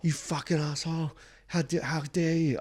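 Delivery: high-pitched mock outrage, not shouted; imitated raging. Comic quoting the next act's complaint, high mock rage. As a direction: imitate her indignant telling-off. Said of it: "The next chick was fucking raging".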